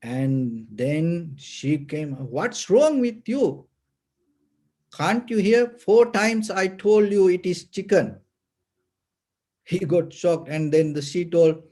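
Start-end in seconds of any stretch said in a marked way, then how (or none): 2.2-8.2 higher, exasperated mock scolding; retold annoyed outburst, pitched up; mad wife. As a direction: imitate a fed-up wife telling him off. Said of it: "She got so mad".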